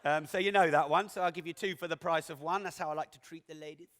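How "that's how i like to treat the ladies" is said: a hint of a leering old lecher; lightly voiced sleazy old man; dirty old man. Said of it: "I sounded like a dirty old man when I said that".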